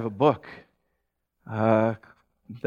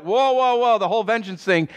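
high, startled whoa; mock alarm; 7 semitones higher than usual. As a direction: pull back in mock shock. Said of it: "we're like".

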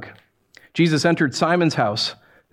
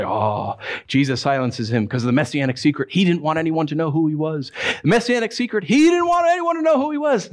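mocking theologian. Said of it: "theologians will say".

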